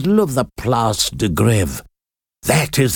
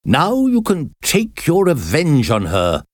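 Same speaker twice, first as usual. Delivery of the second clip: higher, raised commanding call; 5 semitones higher than usual. A narrator's reading. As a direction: call out orders to the recluse. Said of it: "He called out".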